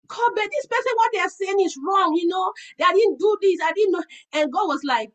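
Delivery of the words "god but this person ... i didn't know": high, pleading protest; a raised, pleading protest. Retold or imitated. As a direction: argue your case to God, indignant. Protesting to God, feeling wronged.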